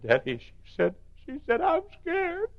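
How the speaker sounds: put-on a small girl's frightened plea climbing in pitch; little girl voice. Child voiced in retold story.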